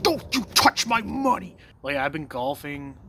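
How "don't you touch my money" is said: much higher and louder hammed-up villain scream; full mock scream. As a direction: go all out, shrieking at the guy burning the cash. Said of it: "he's like, he's like".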